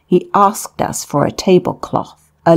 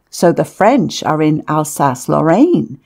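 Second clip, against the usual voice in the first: plain reading voice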